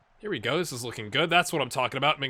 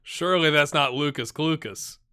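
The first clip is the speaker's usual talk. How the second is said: louder incredulous repeat; disbelief; 4 dB louder than usual. Real, not acted. Repeating the player's name in loud disbelief. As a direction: say it again, not believing it.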